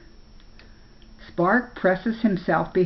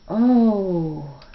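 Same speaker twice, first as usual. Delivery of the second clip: amazed; 3 dB louder than usual. A narrator's reading. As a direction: breathe out in amazement. Boy sees the lovely brook.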